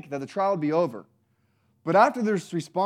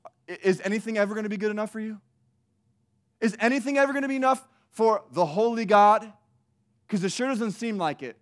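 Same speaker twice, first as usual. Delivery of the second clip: snarky retort; 5 semitones higher than usual. Retold or imitated. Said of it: "Their response is like".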